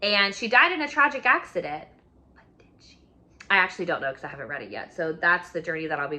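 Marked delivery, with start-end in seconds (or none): 2.3-3.0 hushed, mysterious whisper; dramatic whisper. Acted. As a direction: whisper it like a plot twist. Dramatic teaser about the first wife.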